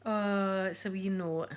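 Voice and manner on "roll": high, squeaky words through laughter; laughing. Real, not acted. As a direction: giggle helplessly into the words. Laughing over a toilet roll find.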